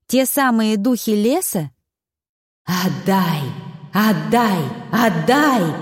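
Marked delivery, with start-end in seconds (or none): 2.6-5.7 insist, rising each time; repeating spirits. A narrator's reading. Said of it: "твердили они". (потусторонние голоса, всё настойчивее)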